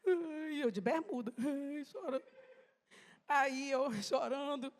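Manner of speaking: real tears breaking into the story, a laugh through the sobbing; crying. Real, not acted. Woman telling the church her testimony, crying through a laugh. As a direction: voice wet and breaking as she relives it. Crying while retelling the prayer.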